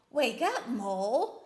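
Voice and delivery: loud storybook wake-up call; rousing call. A narrator's reading. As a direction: call out to rouse a sleeper. Bear rouses Mole in story.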